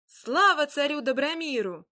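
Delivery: cheering as the crowd. Acted. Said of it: "закричал народ".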